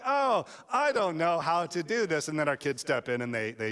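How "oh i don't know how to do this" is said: feigned cluelessness. Pretend. Dad pretends to kids he is stumped, mock clueless.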